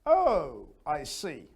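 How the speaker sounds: up and high. Shown as a demonstration. Teacher showing the lively way, up and high. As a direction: lift "Oh, I see" with real interest. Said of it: "you go up and high".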